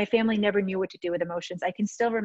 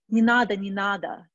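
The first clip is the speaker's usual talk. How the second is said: retold hushing; 4 dB louder than usual. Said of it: "she goes".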